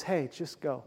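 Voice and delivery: quiet tender voice of encouragement; still small voice. Acted. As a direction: hush it down, gentle and close, coaxing a weary prophet. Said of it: "God in a still small voice says".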